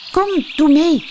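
bright high call to the piglets. A narrator's reading. Rabbit calling the piglets to join in, loud and high. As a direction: call them over eagerly. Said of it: "riep Kareltje".

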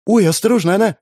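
high, startled little cry; startled high yelp; small cry. Acted. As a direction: cry out in alarm, not too loud. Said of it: "негромко вскрикивает".

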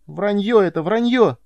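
high, loud outraged scream; boy screaming denial at Suren; shouting. A narrator's reading. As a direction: scream the denial until out of breath. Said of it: "крикнул я".

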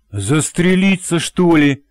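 high, slow, aghast question; wife aghast at husband's guess; gasping in shock. A narrator's reading. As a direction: gasp it out in disbelief. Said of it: "ахнула девушка".

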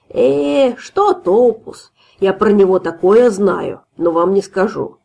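put-on slow dismissive drunk brag; lightly voiced tipsy braggart; drunk boast. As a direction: scoff drunkenly.

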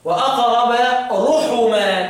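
drawn-out recitation of the verse; slow tajwid recitation; slow Quranic recitation. Shown as a demonstration. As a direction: recite slowly, stretching each word. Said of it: "مين اللي يقرأ رحما بالضم؟".

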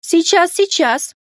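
high, quick eager exclaim. Acted. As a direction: hurry to help. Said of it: "понимающе воскликнула дама".

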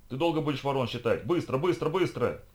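exasperated rushing along; impatient urging. Acted. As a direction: urge them on sharply, pitch jumping. Lisha rushes the stunned driver along.

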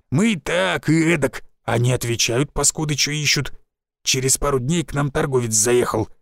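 lightly voiced old village forester; a folksy old woodsman, a touch rough.

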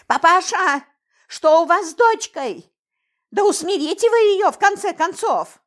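high, loud indignant call; ringing shout. A narrator's reading. Belobokа demanding the father calm his daughter, ringing shout. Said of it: "звонко закричала Белобока".

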